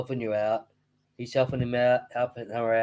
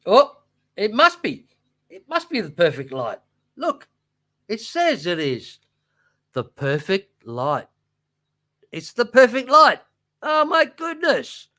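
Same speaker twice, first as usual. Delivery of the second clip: mock gushing; 5 semitones higher, 4 dB louder than usual. Gushing over a light label.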